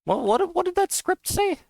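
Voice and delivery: sudden high, baffled what what; real startled confusion at the script; surprised. Real, not acted. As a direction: jump up in pitch, caught off guard by the result. Confused by unexpected damage type.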